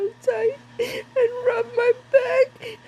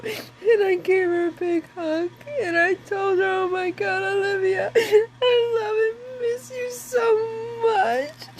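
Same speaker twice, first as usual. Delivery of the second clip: crying. Real, not acted. Hugging daughter in dream, retold.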